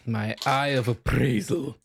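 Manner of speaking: dramatic pronouncement. Acted. Announcing a character ability.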